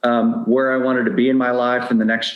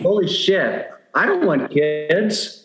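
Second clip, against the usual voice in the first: higher, slow mock alarm at the realization; retold panic; 8 semitones higher, slower than usual. Divorced man retelling his midnight panic to the host, mock alarm. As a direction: replay the midnight shock, half-joking.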